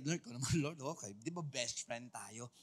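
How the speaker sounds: overly casual. Retold or imitated. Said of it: "na parang kinatapik-tapik mo yung balikat".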